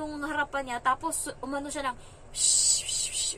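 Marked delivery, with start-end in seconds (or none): 2.3-3.3 hissing "shh" like peeing; imitated peeing sound. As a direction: imitate pee trickling in hushed bursts. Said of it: "yung parang umiihi siya". (ginagayang tunog ng pag-ihi)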